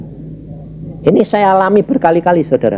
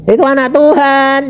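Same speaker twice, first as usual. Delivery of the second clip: emphatic call-out; 10 semitones higher than usual. Real, not acted. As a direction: proclaim it with a lifted voice. Preacher calling out answer.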